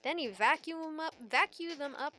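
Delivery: a hint of an old-timey professor explaining a find; playful, avuncular tutorial voice; lightly voiced folksy professor. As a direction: explain it to your boy like a chipper mentor.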